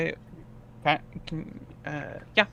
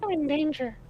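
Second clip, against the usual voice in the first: mock panic; 13 semitones higher than usual. Joking about peril.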